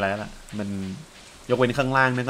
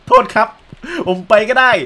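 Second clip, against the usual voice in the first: loud, high-pitched apology; hammed-up yelp of apology; mock flustered apology; 10 semitones higher, 7 dB louder than usual. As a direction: play at being told off and backing out. Mock reply to scolding game character.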